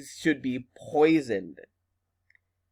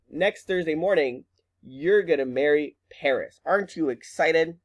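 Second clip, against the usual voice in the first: mock excited mother; 5 semitones higher than usual. Teacher voices mother breaking wedding news.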